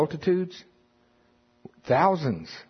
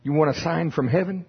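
incredulous question; 6 semitones higher than usual. Retold or imitated. Jesus exasperated at Pharisees.

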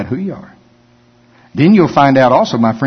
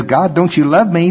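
whiny voice; 5 semitones higher than usual. Retold or imitated. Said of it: "that whiny part of me that says".

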